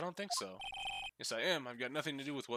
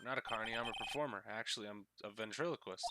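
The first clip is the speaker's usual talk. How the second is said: timid ventriloquist; 2 semitones lower, 5 dB quieter than usual. Acted. Nervous ventriloquist voiced.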